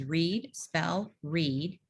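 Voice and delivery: each step lifted and spaced; routine steps. Shown as a demonstration. Teacher naming routine steps, spaced rises. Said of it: "the routine is".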